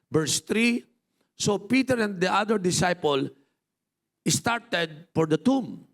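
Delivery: measured Bible reading to the congregation; reading scripture from the pulpit. Acted. Pastor reads scripture aloud.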